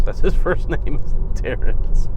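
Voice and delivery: cracking up mid-sentence; laughing. Real, not acted. Amused by a fighter's first name, really laughing. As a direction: let real laughter break through the words.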